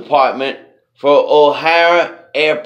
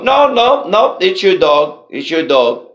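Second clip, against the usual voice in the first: flustered insisting. Retold or imitated. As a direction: jump up in pitch to deny it. Handler insisting again.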